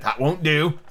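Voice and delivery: lightly voiced sweet fawn; soft, sweet fawn. A narrator's reading. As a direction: gently voice a storybook creature. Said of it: "had a soft, sweet voice".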